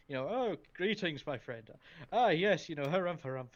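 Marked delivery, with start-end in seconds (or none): 0.3-1.2 hammed-up British greeting, high and loud; mock British pomp, swooping high; stereotypical British man. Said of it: "like a stereotypical British man". 1.3-1.7 mock British gentleman, settling back in pitch; lightly hammed British accent; stereotypical British man. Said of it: "like a stereotypical British man". 2.1-3.5 blustering mock-British harrumphing, high and loud at first; hammed-up British bluster, tailing down; stereotypical British man. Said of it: "like a stereotypical British man".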